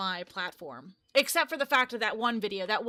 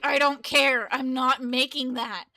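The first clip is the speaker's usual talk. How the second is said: louder, mock stubborn refusal; imitating boyfriend's refusal; 3 semitones higher, 7 dB louder than usual. Boyfriend refusing to make espresso drinks, mock stubborn. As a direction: throw out his flat no, hammed up. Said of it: "and he's like".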